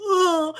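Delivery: imitated disgusted "ugh"; cringing groan. Imitating Mary and Jen cringing at Cody, mock groan. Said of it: "All the wives are, like, cringing".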